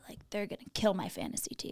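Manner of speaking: fast, whispered grumble of a mock fan. Mocking a sports fan's gripe, fast whisper. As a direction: hiss the fan's complaint under your breath.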